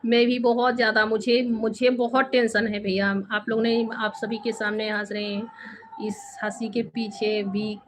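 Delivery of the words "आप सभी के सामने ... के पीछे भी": hushed confiding whisper, breath only; a real whisper while admitting the laughter hides pain. Real, not acted. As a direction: lean in and whisper the secret pain. Confiding hidden pain to viewers.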